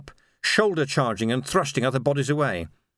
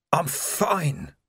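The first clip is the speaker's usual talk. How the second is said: croaking; 3 semitones higher than usual. A narrator's reading. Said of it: "croaked Vimes".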